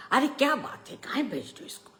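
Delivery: protesting aunt. A narrator's reading. Aunt asking why the boy is being sent, protesting.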